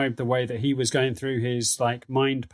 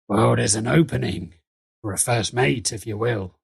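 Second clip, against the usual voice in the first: Nuggets's voice; 2 semitones lower than usual. Acted. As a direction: make a measured proposition in character. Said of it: "as he says".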